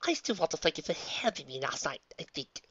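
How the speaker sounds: nervous hushed whisper. Acted. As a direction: breathe it out nervously.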